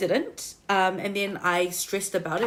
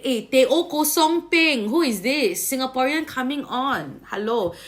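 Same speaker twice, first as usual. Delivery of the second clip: Singlish-flavoured voice, slow; Singaporean accent; 4 semitones higher, 4 dB louder than usual. Retold or imitated. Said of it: "better switch to my Singaporean accent lah".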